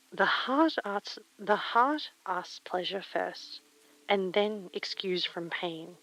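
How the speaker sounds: slow, deliberate recital; poem reading. Acted. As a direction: savour each line of the poem. Reads second poem.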